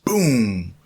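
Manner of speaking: punchy, drawn-out boom falling in pitch; booming impact. Retold or imitated. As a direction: mimic a big impact with the word. Sudden wave hitting him, retold.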